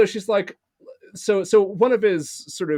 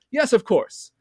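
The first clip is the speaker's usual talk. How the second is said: broken English; 3 semitones higher, 5 dB louder than usual. Retold or imitated. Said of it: "he goes to her in, like, broken English".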